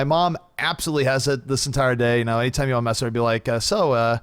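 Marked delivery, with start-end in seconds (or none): 3.6-4.2 park the car with Boston dropped r's; light imitation of a Boston accent. Imitating mom's accent to mess with her, Boston accent. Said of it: "Boston accent, which of course I know very well".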